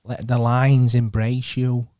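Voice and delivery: slow, drawn-out Manny voice on "Let the lines embrace you"; Manny impression. Mimicking Manny for his mate, slow drawn-out voice. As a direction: stretch each word like Manny would. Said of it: "what should I say in Manny?".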